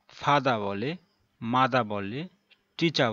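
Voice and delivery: ফাদা, মাদা, টিচা in a British accent with no final r; British accent, drop the r at the end; British accent demo. Shown as a demonstration. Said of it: "ব্রিটিশরা". (British উচ্চারণে শেষের র ছাড়া)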